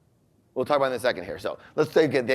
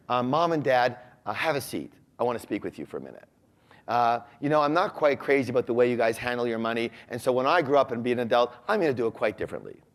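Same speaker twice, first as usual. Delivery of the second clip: mock polite calm; faster than usual. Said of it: "No, it doesn't quite sound like that".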